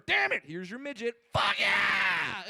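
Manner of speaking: sudden thrilled whoop from a patient; excited patient. Acted. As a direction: cheer like he won a prize. Cancer patient reacts, shouting.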